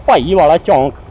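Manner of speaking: Punjabi accent, Paiwala with a plain unaspirated p. Shown as a demonstration. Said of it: "call it in the Punjabi accent".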